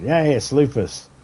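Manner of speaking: triumphant mock announcement; retold excitement. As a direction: crow it like you finally caught it. Retold doctors' happy discovery.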